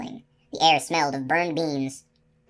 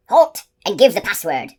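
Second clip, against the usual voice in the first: high, wavering call from the dark; high trembling sentry call; 5 semitones higher, 7 dB louder than usual. A narrator's reading. Sentry hailing riders from the dark, high and trembling. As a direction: call out the challenge in a thin shaky voice. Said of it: "A high, trembling voice called out".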